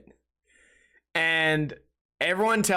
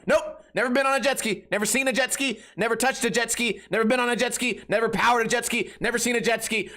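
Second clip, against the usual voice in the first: higher, rattled-off singsong list; exasperated denial; 5 semitones higher than usual. Acted. Answering repeated jet ski questions, exasperated. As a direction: pile up denials in mock frustration.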